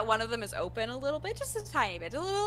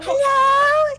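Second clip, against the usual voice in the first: bright shouted hello, much higher; loud excited greeting; 14 dB louder than usual. Acted. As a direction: call out hello with joy. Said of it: "And she's like".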